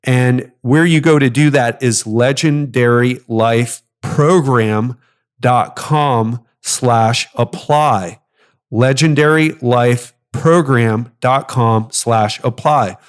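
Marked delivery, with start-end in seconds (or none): 2.1-8.2 slow, deliberate web address with pauses between the parts; very slow cadence. Real, not acted. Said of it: "I have to say it very slowly, like that, with that cadence". 8.7-13.0 slow, measured repeat of a web address; very slow cadence. Real, not acted. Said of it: "I have to say it very slowly, like that, with that cadence".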